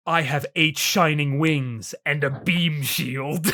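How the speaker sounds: slow breathy angel voice. Retold or imitated. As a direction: breathe out every word slowly. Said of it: "really breathy voice".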